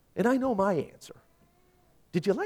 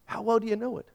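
quicker, higher and softer, a gentle prod; lighter higher follow-up; 5 semitones higher, 5 dB quieter, faster than usual. Shown as a demonstration. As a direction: repeat it lightly, higher and quieter, nudging. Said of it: "Let me ask you something".

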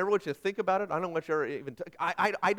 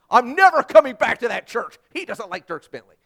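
huffy churchgoer; 4 semitones higher, 15 dB louder than usual. Retold or imitated. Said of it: "some people right now are like".

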